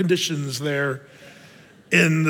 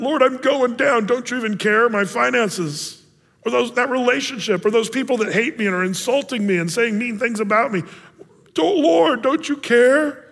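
desperate plea; 5 semitones higher than usual. Retold or imitated. Believer pleading with God.

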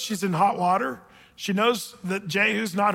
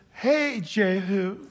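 slow, stretched-out hail; playfully put-on come-hither call; mock calling down; much slower than usual. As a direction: draw the greeting out as if calling from a window. Jezebel calls down from the tower.

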